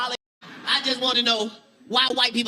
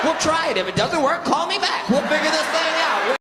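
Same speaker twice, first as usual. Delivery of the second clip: cheerful helper; 5 semitones higher than usual. Acted. Acted friendly white stranger.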